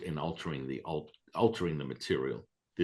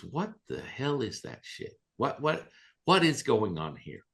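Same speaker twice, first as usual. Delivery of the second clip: mock baffled protest, pitched up; retold incredulity; 5 semitones higher than usual. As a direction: act out her disbelief, building in volume at the end. Retold friend balking at the idea.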